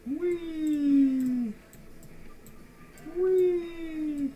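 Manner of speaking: very high squeal of delight; gleeful whee. Pretend. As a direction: shriek it like a kid on a slide. Gleeful cry while demolishing.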